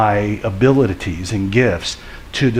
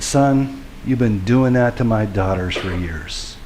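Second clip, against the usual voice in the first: a lightly voiced, calm and tender rebuke; gentle voice. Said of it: "a gentle voice spoke to me".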